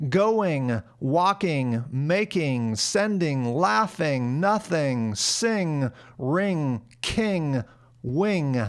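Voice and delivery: each "-ing" said with an ee-like vowel; listed words, "king" toward "keeng". Shown as a demonstration. Teacher listing ING examples, each ending toward "eeng". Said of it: "words ending in I N G".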